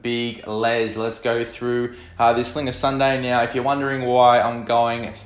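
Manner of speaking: tinny phone voice memo recording; recorded on a mobile phone; over the phone. Real, not acted. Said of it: "sounding like a broken radio".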